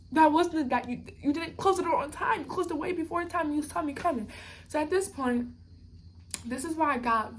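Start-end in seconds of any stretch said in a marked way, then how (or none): 0.1-4.3 higher-pitched, indignant retelling; indignant protest. Retold or imitated. Pregnant passenger disputing an early door closing, indignant. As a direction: argue the point in a raised pitch. Acted protest to gate agent.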